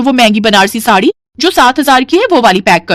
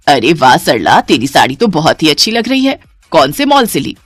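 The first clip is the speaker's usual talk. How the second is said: put-on much lower, admiring older friend; friend's voice; 5 semitones lower than usual. Party friend complimenting Sarla's sari, admiring. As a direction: gush over the sari in a low voice.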